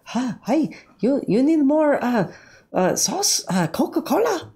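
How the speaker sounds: high, put-on Asian restaurant server accent; squeaky caricature of an Asian waiter; mock Asian waiter accent. Streamer mocking an Asian restaurant server, high put-on accent. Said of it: "every time I go to an Asian restaurant".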